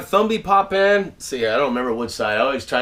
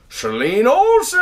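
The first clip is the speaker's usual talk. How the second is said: slow, much higher, loud called-out name; shout-out; 10 semitones higher, 6 dB louder, slower than usual. Real, not acted. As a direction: call the name out across the room. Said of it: "shout all these out".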